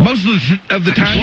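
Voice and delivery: violent stumble. Shown as a demonstration. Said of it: "way more violent".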